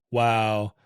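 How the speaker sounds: low, understated nonplussed wow. Shown as a demonstration. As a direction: sound mildly nonplussed, barely reacting. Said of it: "in a sort of nonplussed fashion".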